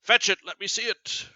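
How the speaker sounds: reading Othello's angry command to his wife; furious reading. Acted. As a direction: insist hard, like a furious husband. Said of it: "So he is furious".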